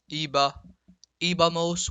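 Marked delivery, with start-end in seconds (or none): 1.2-1.9 ibamos stressed on the first i, EE-ba-mos; accent on the i. Shown as a demonstration. Teacher drilling irregular ir forms, stressed i. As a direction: lean on the opening i of ibamos. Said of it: "with an accent on the I".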